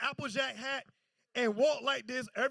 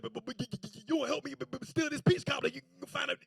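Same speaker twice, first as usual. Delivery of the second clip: like a rapper; faster than usual. Retold or imitated. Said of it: "he sound like a rapper".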